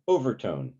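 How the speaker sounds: overtone with the accent on O; stress on first syllable. Shown as a demonstration. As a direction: hit the O of overtone, let the rest fall. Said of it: "So first syllable".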